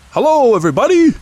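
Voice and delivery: loud, fast, bouncy cheerful greeting; cheerfully. A narrator's reading. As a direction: burst in full of bounce. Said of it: "said Tigger cheerfully".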